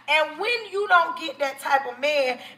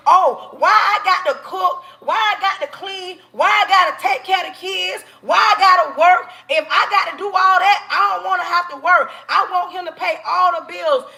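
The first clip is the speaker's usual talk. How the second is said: hammed-up nagging girlfriend voice; mocking whiny woman; 3 semitones higher than usual. Man mocking women who complain about chores.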